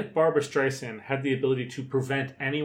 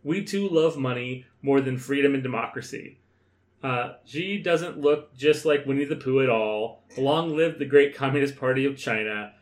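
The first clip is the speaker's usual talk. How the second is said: north korean newsreader. Retold or imitated. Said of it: "I'm gonna read it".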